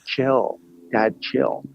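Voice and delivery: lightly mimicked creaky daughter; a touch of mock Calabasas creak; imitated vocal fry. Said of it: "Stop with the vocal fry".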